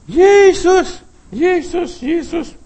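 high, loud repeated cries; crying out. Shown as a demonstration. Preacher proclaiming against whatever comes, shouting. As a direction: call the name out forcefully.

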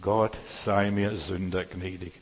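slow, low, humble plea of the tax collector; humble prayer. Shown as a demonstration. Preacher voicing the tax collector's prayer, slow and humble. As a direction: beg for mercy slowly, head bowed. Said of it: "ist das Gebet des Zöllners".

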